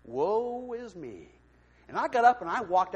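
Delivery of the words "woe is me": slow, drawn-out mock self-pity; mock lament. Preacher mocking his own sulking, slow. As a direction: stretch it out like a tragic sigh.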